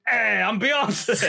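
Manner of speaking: high, slow, laughing falsetto impression of a singer; lightly hammed pop-star voice; mock pop star. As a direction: stretch it out high and giggly like a bad diva. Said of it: "say a singer's name or something".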